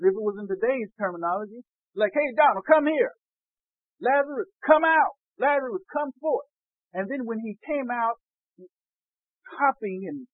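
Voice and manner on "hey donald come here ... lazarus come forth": high, loud, casual summons; acted yell. Preacher calls Lazarus in today's words, acted yell. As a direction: holler for someone to come over. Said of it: "And he yelled".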